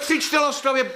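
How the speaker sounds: high, mocking snap at her shouting; sarcastic rebuke. Landowner mocking the widow's shouting, sarcastic.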